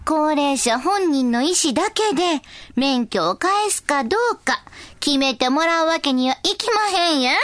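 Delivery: put-on slow, old-fashioned Kansai elder; creaky wise old man. Old figure's opinion read out.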